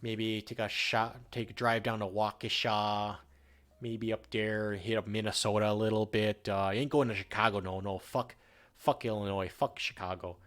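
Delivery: mock Upper Midwest accent, almost Canadian. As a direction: ramble like a Wisconsin fisherman in an Upper Midwest accent. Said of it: "It's almost Canadian".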